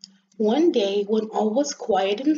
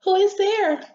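high, louder, indignant question; annoyed little rosebud; 10 semitones higher, 5 dB louder than usual. Acted. Rosebud asks who is at the window, annoyed. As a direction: demand it in a raised little voice.

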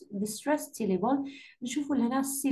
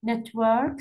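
Network with the first syllable stressed; Network, weight on the opening N syllable; stress on NET. Shown as a demonstration. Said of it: "stress يجي على ال N".

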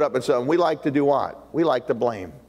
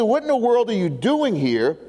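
indignant questioning, pitched higher; angry disbelief; 5 semitones higher than usual. Acted. Peter demands answers from Ananias, indignant. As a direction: demand an explanation with raised pitch. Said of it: "He's so angry over this".

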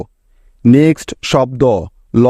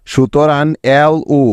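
slow spelling. Shown as a demonstration. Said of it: "ল এর সাথে একটি উ নিতে হবে".

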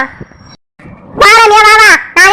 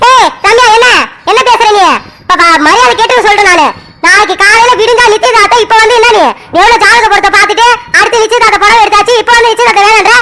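angry scolding. Acted. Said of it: "ஏமா இவ்வளவு சத்தமா பேசுற?".

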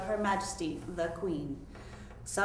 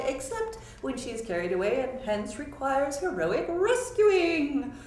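a lightly voiced prince, louder, insisting; prince declaring; 3 semitones higher, 4 dB louder than usual. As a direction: repeat the demand with princely pomp. Prince repeats his request.

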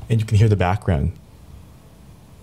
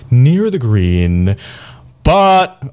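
loud, stretched-out words; overload demo; 3 semitones higher, 7 dB louder, much slower than usual. Shown as a demonstration. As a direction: push the volume up hard into the mic. Pushing level to show peak overload.

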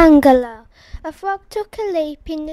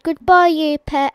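hasty goodbye; 8 dB louder than usual. Acted. Eagle hurrying off.

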